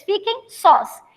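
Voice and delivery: drawn-out "fiquem sós" for the class; slow fiquem sós. Shown as a demonstration. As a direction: stretch "fiquem sós" out slowly. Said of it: "que eu fique só e que vocês". ("fiquem sós" bem devagar, ensinando)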